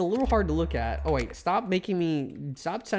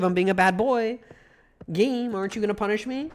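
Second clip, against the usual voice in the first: taunting the game; 5 semitones higher than usual. Acted. Player taunting the game to punish him, high bratty provocation. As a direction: poke at the game like a naughty kid.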